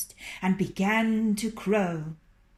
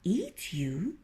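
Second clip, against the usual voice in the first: sly fox. Acted. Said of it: "cried Reynard".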